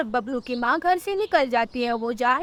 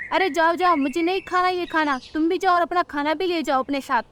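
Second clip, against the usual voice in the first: higher-pitched, crossly dismissive elder; dismissive mother-in-law; 5 semitones higher than usual. Acted. Mother-in-law refuses Rano's food, crossly dismissive. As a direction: send her away, pitched up.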